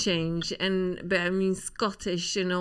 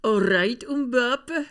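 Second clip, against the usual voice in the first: Scottish accent; much slower than usual. Shown as a demonstration. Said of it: "Do it".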